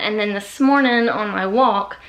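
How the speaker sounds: breathing hard after a workout; winded, panting between words. Real, not acted. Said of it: "sorry, I'm breathing hard".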